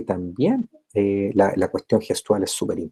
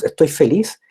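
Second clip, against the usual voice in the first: a touch of mock cheer, higher and louder; demonstrating happiness; 5 semitones higher, 4 dB louder than usual. Shown as a demonstration. Teacher to students, demonstrating a happy expression with mock cheer. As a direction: show the class a happy face and voice. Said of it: "me veo un poco ridículo".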